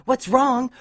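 high, loud, outraged repeat; angry echo. A narrator's reading. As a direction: throw the question back, loud and high. Dash angrily echoes Scootaloo's question.

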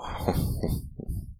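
whispered, voiceless laugh; breathy chuckle. Pretend. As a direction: chuckle under your breath. Amused while whispering to lover.

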